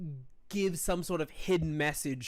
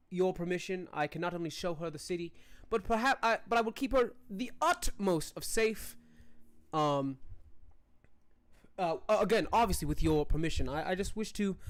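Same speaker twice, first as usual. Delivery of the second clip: courtly noble; faster than usual. Acted. Noble petitions the king, lightly voiced formal courtier. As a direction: play the polite court noble, earnest and eager.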